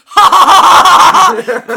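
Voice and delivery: loud, high panicky fake laughter; nervous forced laugh. Retold nervous laugh at the actress offering cookies, loud and high. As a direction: laugh way too hard out of nerves.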